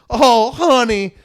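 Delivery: loud, high, drawn-out fake endearment; mock fake sweetness. Man mimics Southerners who won't say it outright, fake-sweet drawl. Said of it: "you know it's fake as fuck".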